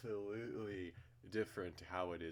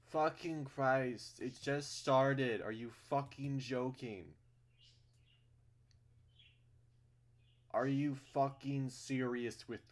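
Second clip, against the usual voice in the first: exasperated yelling; 5 semitones higher, 7 dB louder, slower than usual. Real, not acted. Outraged at the game's plot twist.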